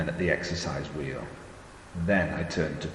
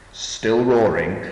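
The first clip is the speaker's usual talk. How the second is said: roaring; 4 semitones higher, 6 dB louder, slower than usual. A narrator's reading. Narrator describes rage.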